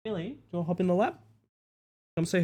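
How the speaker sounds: high, quick coaxing pet voice. Real, not acted. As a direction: sweet-talk the cat into your lap. Coaxing cat onto lap.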